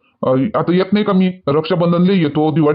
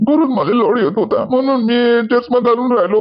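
tearful; 4 semitones higher than usual. Acted. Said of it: "माय रडणं दिसलं आणि तू चष्मा घालून".

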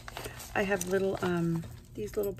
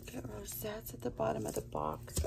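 hushed whisper; 3 semitones higher, 8 dB quieter, faster than usual. Real, not acted. Pointing out rosettes at the bottom, whispering. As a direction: whisper to the viewers in awe.

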